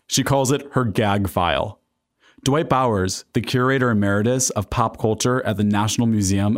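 measured podcast narrator read; scripted narration. A narrator's reading. Host introduces comic Phyllis Diller to listeners, scripted narration. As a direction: read it as polished documentary narration.

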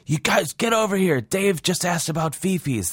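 high excited inmate voice calling buddies. Retold or imitated. Inmate calling other inmates over, high and excited. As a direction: call your friends over, thrilled.

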